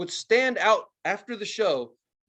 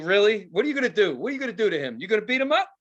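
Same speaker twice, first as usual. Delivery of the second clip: mock rant; 3 semitones higher, faster than usual. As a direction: taunt the bootleg seller. Imagined rant at the seller.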